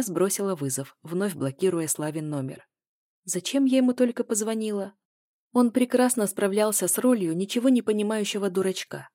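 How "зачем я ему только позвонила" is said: ordinary delivery, nothing marked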